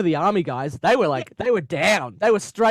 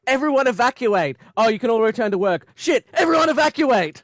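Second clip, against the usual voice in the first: higher, louder flustered orders; panicky official; 5 semitones higher, 4 dB louder than usual. Retold or imitated. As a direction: flip between alarm and relief. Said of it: "he's like".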